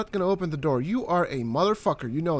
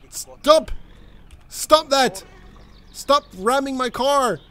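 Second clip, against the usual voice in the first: high, loud shouted commands; angry shouting; 8 semitones higher, 4 dB louder, slower than usual. Real, not acted. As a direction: yell at the driver to stop. Yelling at driver ramming him.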